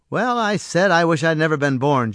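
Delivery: a firm restatement of the wish; firm repeat. Acted. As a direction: repeat "I wish I'd never been born" and mean it. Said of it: "George repeated firmly".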